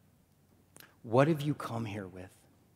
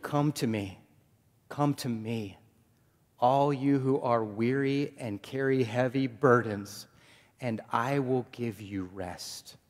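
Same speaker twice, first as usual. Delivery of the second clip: warm invitation; 6 dB louder, slower than usual. Acted. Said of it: "Jesus says it like this".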